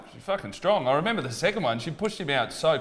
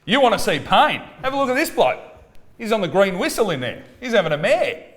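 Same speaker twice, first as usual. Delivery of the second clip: mock outrage; 10 semitones higher, 6 dB louder than usual. Real, not acted. Mocking dad's own exaggeration.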